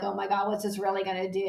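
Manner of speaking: quick, hushed doubting aside; mock skeptical listener. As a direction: toss it off like a doubtful client. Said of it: "I know you're gonna feel like".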